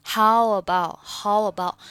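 "How about" run together at an easy pace; relaxed reading. Shown as a demonstration. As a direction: say "How about" casually, without stretching "How". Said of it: "就是很放松的读".

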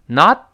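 NOT cut off with the T held unreleased. Shown as a demonstration. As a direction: stop the breath on the final T of NOT, no burst. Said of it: "首先点住，憋一下气儿". (not的t失去爆破，憋住气)

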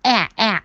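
"A" as the short a of cat; steady vowel. Shown as a demonstration. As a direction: repeat "A" as an unchanged open short a, not ah. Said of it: "元音千万不能变". (重复示范短元音 a，保持不变)

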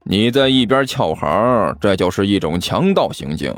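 low, insistent reproach; dogged, low-pitched complaint; unrelenting. Acted. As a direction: press the accusation without letting up. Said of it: "齐健不依不饶地说道".

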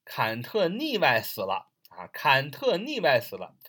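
Cantonese sounded out as Chinese 坎特腻歪死了; sound-alike mnemonic. Shown as a demonstration. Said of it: "把它谐音就是".

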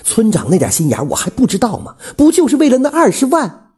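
high-pitched, insistent pleading; unwilling to give up. A narrator's reading. Widow urging him to reconsider, unwilling to give up. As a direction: plead hard, voice pitched right up. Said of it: "虎子妈还是不甘心".

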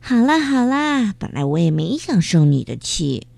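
sweetly forgiving. Acted. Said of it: "菲菲说着就露出了甜甜的笑容".

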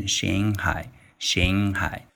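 slow English Shanghai with an ang ending. Shown as a demonstration. Teacher tells learners to say Shanghai the English way, slow. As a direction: slowly say Shanghai as an English word. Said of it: "所以会读成".

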